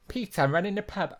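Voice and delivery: high put-on soap-character voice; character impression. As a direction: mimic a character, pitched well up. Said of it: "This person says it like".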